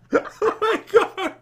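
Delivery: laughing. Real, not acted. Laughing at friend's mistake.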